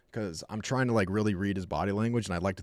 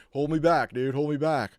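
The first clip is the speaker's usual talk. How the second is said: mock tough dog; 4 semitones higher than usual. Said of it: "He was like".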